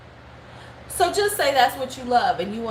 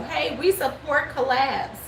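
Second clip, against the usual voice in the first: higher, slow, eager mock voice; mocking eager brand voice; 6 semitones higher, slower than usual. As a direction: mimic a brand trying too hard. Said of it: "wanted to be seen like".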